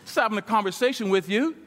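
loosely calm him down, unbothered; laid-back calming. Retold or imitated. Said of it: "He's like".

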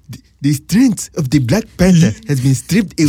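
mock Black Panther movie accent, deliberately bad; mimicking a dodgy Wakandan accent; Forrest Whitaker impression. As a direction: lightly put on a hammy fake African film accent. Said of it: "Forrest Whitaker's accent was bullshit".

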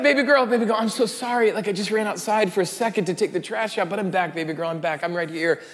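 comforting dad. Retold or imitated. Father soothing his crying daughter after the scare, gentle and hushed. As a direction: settle a frightened child down.

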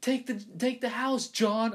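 high, loud meme voice; meme impression. Quoting a famous video to friends, high meme voice. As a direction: do the free real estate guy, way up high. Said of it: "you guys know that video where he's like".

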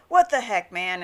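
mock irate protest, punched at the start; acted exasperation, dropping off at the end; retold anger. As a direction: imitate a mad customer griping. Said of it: "he was so mad".

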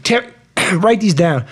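coughing, choking mid-sentence; throat catching, struggling to speak; choking on a drink. Real, not acted. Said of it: "I'm only choking on my own fucking breath".

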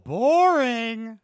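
high, loud jeer; drawn-out, loud "boring"; loud heckle. Real, not acted. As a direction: heckle it like a bored audience member. Heckling the show's tender apology.

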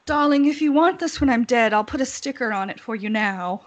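lightly voiced Hollywood mother; imitating Debbie Reynolds. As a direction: play the breezy grand dame. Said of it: "she'd be like".

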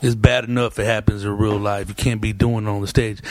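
deep-pitched, measured mock lecture; security guard. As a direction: imitate a club guard laying down the rules. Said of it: "he used to be like".

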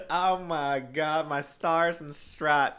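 slow Southern drawl; Leslie Jordan. Acted. Playing along with co-host's comparison, slow hammed-up Southern drawl. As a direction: play up a slow, mock Southern exclamation. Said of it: "You sound like Leslie Jordan".

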